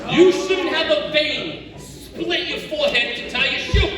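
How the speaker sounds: slow, strained and breathless; straining voice. Shown as a demonstration. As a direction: push it out like bending over. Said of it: "straining demo".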